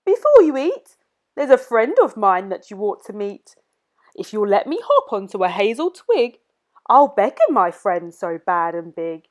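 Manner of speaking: sly little mouse with a plan. Acted. Mouse voice bargaining.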